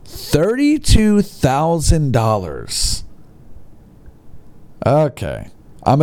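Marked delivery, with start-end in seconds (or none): 0.0-3.0 disbelief. Real, not acted.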